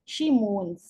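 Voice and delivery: "she mourns" as a measured, falling model; demonstrated stress pattern. Shown as a demonstration. Teacher repeating "she mourns" for students to practise, demonstrated stress. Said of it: "जिस तरह से मैं बोल रही हूँ".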